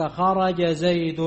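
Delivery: each word set apart slowly, as a model sentence; spoken slowly like a textbook example. Shown as a demonstration. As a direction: lay the example out slowly for the class. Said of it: "يعني مثلًا أقول لك".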